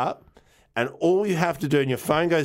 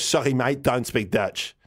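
put-on Dutch migrant's accented Australian English. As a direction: imitate an Aussie-speaking Dutchman. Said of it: "With that accent".

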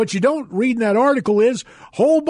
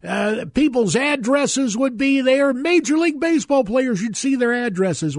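higher, wistful mock quote of old-timers; nostalgic folks; 5 semitones higher than usual. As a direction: gush lightly about the good old days. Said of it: "some folks say".

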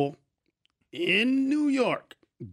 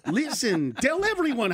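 put-on Jewish guy accent; 3 semitones higher than usual. Store owner telling a customer to spread word, Jewish accent. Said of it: "I just did a Jewish guy".

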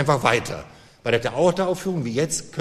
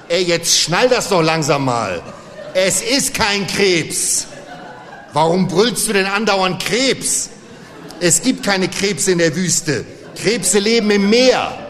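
mocking brothers; 3 semitones higher, 3 dB louder than usual. Brothers mock the wrong guess.

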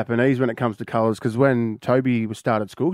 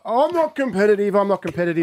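mock Fiona protest; 7 semitones higher than usual. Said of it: "Fiona Box is a very".

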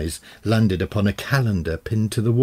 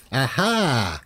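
exclaiming; 5 semitones higher than usual. A narrator's reading. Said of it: "he exclaimed finally".

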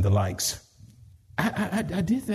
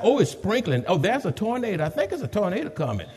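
mock worried churchgoer; 4 semitones higher than usual. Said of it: "folk can look outside".

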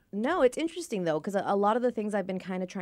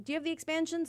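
friend's question; 11 semitones higher, faster than usual. Retold or imitated. Voicing friend's question in a story.

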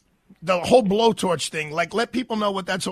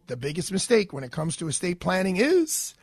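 steady, measured host-read sponsor spot; polished sponsor pitch, punching key details; radio ad read; 4 semitones lower than usual. Acted. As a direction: deliver it like a live radio commercial. Reads a law firm ad.

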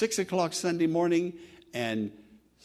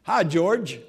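casual greeting; 6 dB louder than usual. Pretend. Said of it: "I walk up".

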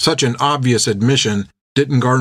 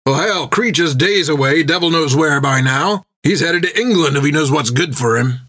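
higher, impatient captain's reply; lightly voiced skipper brushing it off; dismissive captain; 5 semitones higher than usual. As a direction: dismiss the idea firmly. Jack dismisses the pursuit.

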